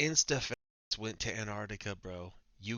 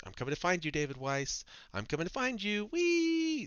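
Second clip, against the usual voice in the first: mock menacing; 5 semitones higher than usual. Mock menacing then giddy.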